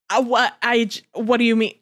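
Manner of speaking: slow, baffled disbelief, building to a rising question; a lightly voiced Edward who can't believe what he's hearing; incredulous Edward. Edward questioning Bella's reasoning about the Volturi, slow and disbelieving. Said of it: "incredulous expressions throughout this entire thing".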